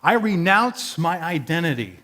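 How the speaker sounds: a proclamation to the town, lifted in pitch; public renunciation. Acted. Tax collector telling the town he disowns his people, declaring it. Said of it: "standing out in the middle of town and saying that".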